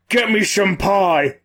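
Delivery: lightly voiced drowsy orc, drawn out; slow, lazily stretched request from a dozing orc; a hint of sleepy orc; sleeping orc. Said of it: "and the orc just goes".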